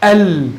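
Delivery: ال said as one joined syllable "al"; blended as one syllable. Shown as a demonstration. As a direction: say ال whole, without letter names. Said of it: "وعلى رأي سيبويه كيف ستلفظ". (نطق ال مقطعًا واحدًا)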